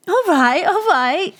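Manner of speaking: lightly amused, no real laugh. Acted. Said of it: "laughed Sally".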